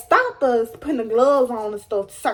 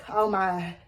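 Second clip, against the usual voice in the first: dramatic crybaby; 7 semitones lower, much slower than usual. Retold or imitated. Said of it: "I'm a crybaby and I'm dramatic".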